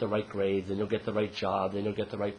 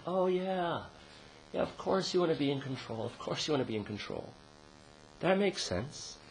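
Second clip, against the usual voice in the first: gentle self-talk; 5 semitones higher, 3 dB quieter than usual. Shown as a demonstration. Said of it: "it's important to say".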